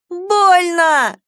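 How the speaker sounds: put-on high, loud wail of a hurt little boy; howling child. A narrator's reading. Hurt little brother wails at his sister, high and loud. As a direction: wail in pain like a small boy. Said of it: "взвыл он".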